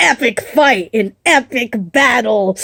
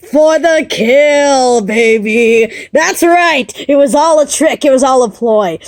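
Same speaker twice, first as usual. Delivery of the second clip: gloating villain; 3 semitones higher, 3 dB louder than usual. Acted. Villain reveals the trick.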